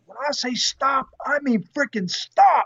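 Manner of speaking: high-pitched, emphatic mock reprimand; angry commander. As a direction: lay down the law, building to the last word. Acted commander scolding the driver.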